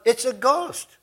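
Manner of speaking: high, fearful cry of the disciples; frightened cry. A narrator's reading. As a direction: cry out as if seeing a ghost. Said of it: "In fear, they cried out".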